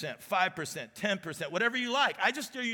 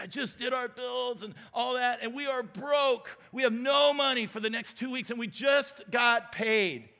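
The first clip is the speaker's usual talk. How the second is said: panicked in tears; 5 semitones higher than usual. Retold or imitated. Wife on the phone, in tears over bills, panicked high cry. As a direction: mimic a wife crying out that money is gone. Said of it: "she'd be in tears".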